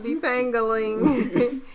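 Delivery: "detangling" drawn out slowly with a twang. Retold or imitated. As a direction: stretch "detangling" into a slow twang, amused. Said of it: "Em says it with a twang".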